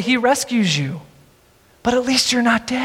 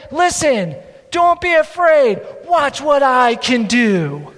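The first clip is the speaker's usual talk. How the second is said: self-important Moses; slower than usual. Acted. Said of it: "He could have said".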